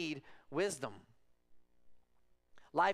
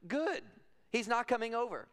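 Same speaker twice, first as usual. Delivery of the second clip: indignant dad refusal; 7 semitones higher than usual. Retold or imitated. Dad refusing daughter's boy visit.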